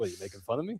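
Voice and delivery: combative, pushy wiseguy voice. Retelling how he answered on a call, like Joe Pesci in Goodfellas. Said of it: "It was like Pesci. Goodfellas".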